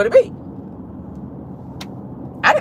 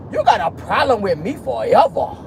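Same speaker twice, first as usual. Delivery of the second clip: a rapper's voice. Retold or imitated. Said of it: "I gotta say it in my Cardi B voice".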